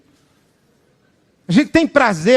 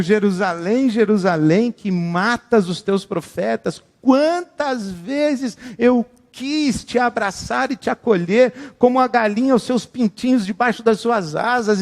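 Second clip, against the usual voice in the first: weeping lament; 3 dB quieter than usual. Acted. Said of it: "em lágrimas dizendo".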